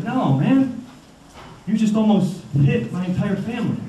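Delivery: a hint of a reproachful talking deer; lightly voiced deer scolding.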